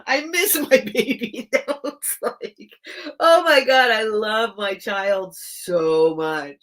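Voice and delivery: real weepy gush of love; crying. Real, not acted. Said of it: "now I'm crying".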